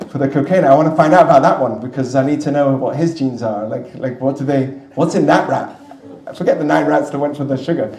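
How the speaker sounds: a hint of comic wonder about the stoner rat; playful joke. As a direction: tease the idea with mock curiosity. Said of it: "so I said".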